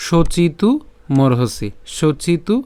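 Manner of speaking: measured Sanskrit phrase said twice; recitation demo. Shown as a demonstration. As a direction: recite deliberately, lengthening the vowels. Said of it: "যেভাবে উচ্চারণ করেন".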